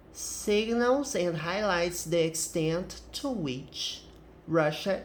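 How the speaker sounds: slow, deliberate English read-aloud; article read-aloud. Acted. Teacher reading the next English paragraph to students, slow careful read-aloud. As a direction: read each phrase out carefully, opening strong.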